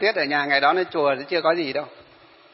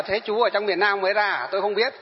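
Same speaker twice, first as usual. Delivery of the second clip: gentle reply. Retold or imitated. A monk gently answering the man who insulted him. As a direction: answer calmly, defusing the insult. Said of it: "mình mới nhẹ nhàng mới bảo".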